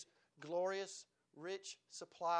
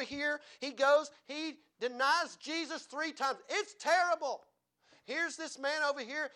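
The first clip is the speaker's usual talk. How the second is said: raised, emphatic preacher's delivery; preaching; 6 semitones higher, 7 dB louder than usual. Real, not acted. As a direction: preach it with drive, punching key words. Preaching with full energy.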